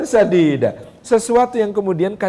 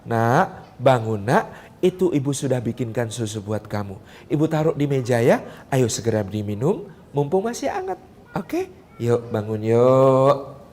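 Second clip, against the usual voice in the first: gentle wake-up; 8 semitones lower, 6 dB quieter than usual. Shown as a demonstration. Second mother waking her child, soft and tender. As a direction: coax the child awake lovingly. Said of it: "membangunkan anaknya dengan cara".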